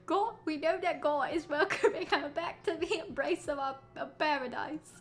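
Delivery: laughing through the words; breaking into laughter mid-line. Real, not acted. Laughs at own slip mid-eulogy.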